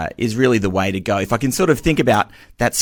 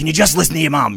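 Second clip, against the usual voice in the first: put-on half pleading, half annoyed, pitched up; 7 semitones higher than usual. Retelling asking the kids to listen to their mum: imitating a half-pleading, half-annoyed dad. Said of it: "it's half pleading, half annoyed".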